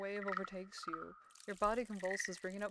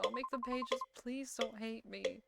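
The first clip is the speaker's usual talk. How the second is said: higher, acted desperate prayer; fervent pleading; 4 semitones higher, 3 dB quieter than usual. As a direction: beg as if praying for forgiveness. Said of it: "as you pray fervently".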